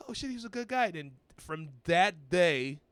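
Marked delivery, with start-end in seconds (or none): 0.1-0.9 high, surprised mock exclamation; playful imitation of a startled friend; mock surprise. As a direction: raise the pitch in sudden realization.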